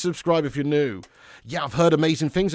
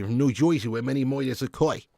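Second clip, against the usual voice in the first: put-on New Jersey accent. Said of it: "Love that accent, New Jersey".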